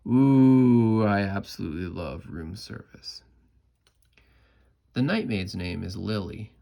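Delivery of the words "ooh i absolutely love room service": delighted. Acted. Delighted exclamation.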